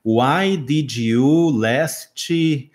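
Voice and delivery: put-on very slow, word-by-word English with a Brazilian accent; halting Brazilian learner English, "last" ending in -tchee; learner's Portuguese-accented English. Teacher recalls his wrong translation, halting Brazilian-accented English. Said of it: "Eu dizia assim".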